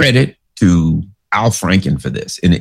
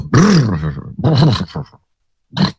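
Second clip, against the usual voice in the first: generator sputter. Retold or imitated. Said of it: "the generator goes".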